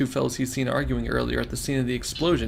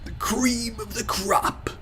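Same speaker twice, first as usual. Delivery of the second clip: much higher, very slow and stretched; mocking repeat; 10 semitones higher, much slower than usual. Narrator echoing the insult, slow mocking sing-song. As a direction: savour the phrase with mock scorn.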